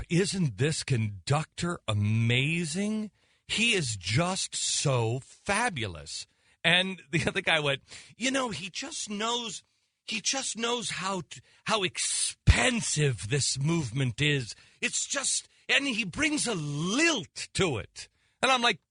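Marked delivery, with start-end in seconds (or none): 0.1-6.3 mock effete gush. Mimicking bathroom opera fans. 8.2-18.1 mock effete gush. Mimicking second opera fan.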